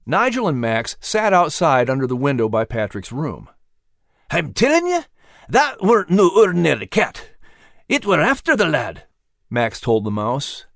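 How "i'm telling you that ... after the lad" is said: higher rough working-class dog voice; lightly voiced dog. A narrator's reading. Dog insisting to the mouse, lightly voiced. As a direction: insist like a gruff old dog.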